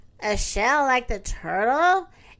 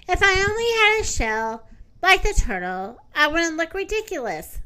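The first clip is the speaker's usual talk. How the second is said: a slightly higher, wistful hippopotamus; the hippo dreaming aloud of a shell; 4 semitones higher than usual. Acted. Hippopotamus voice in story.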